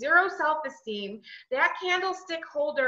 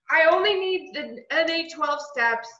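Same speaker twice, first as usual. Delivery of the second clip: mocking rigid self; 2 semitones higher than usual. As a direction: play your old know-it-all self. Mocking her old rigid self.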